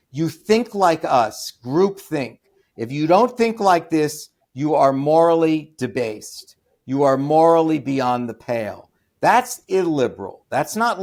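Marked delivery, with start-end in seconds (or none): 0.1-8.9 louder, slow, preachy mock of a scold; mocking progressive demand. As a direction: hammer each word like a self-righteous scold. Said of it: "their demand is".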